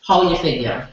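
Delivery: put-on a light Saint Thomas island accent carried through the poem; Virgin Islands dialect. Poet performs her poem for the open mic crowd in a light Virgin Islands accent. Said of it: "the way we talk back home".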